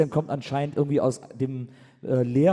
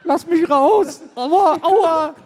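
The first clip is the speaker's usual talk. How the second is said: quiekender Engel; 13 semitones higher, 8 dB louder, much slower than usual. Acted. Engel eingeklemmt, Kollege spielt ihn.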